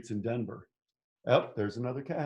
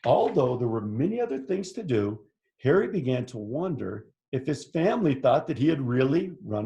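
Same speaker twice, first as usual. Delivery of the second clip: animated picture-book narration; story read to children. A narrator's reading. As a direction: read it out with lively swoops for young listeners. Reads picture book aloud.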